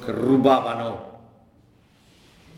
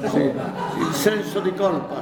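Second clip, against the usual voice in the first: amused, laughing while speaking; 5 semitones higher than usual. Real, not acted. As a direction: let the laugh spill into it. Joking about guilt, audience laughing.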